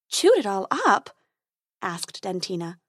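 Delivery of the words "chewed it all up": surprised fairy. Acted.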